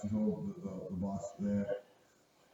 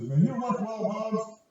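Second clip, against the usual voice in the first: voicing coworker; 10 semitones higher, 5 dB louder, slower than usual. Coworker voiced in story.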